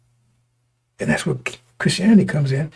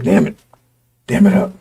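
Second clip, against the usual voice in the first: urgent quoted command; 4 semitones higher, 5 dB louder than usual. Retold or imitated. Quoting the basic line, urging.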